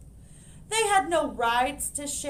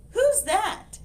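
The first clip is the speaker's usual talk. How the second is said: puzzled librarian; 10 semitones higher, 8 dB louder than usual. Acted.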